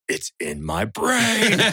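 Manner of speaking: slow, high, laughing through it; drawn-out high wail with laughter; laughing mock panic. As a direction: act out the panic while cracking up. Retells his panic at the nosebleed.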